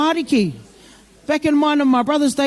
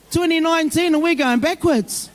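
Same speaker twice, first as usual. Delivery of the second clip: laughing; 5 semitones higher than usual. Real, not acted. Laughing at kids complaining.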